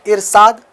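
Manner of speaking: इरशाद with a plain s sound, Irsad; इरशाद said crudely, sh turned into s; demonstrating the crude इरशाद; wrong uneducated way. Shown as a demonstration. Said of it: "थोड़ा घटियापन, मतलब जाहिलानापन आवाज़ निकलती है".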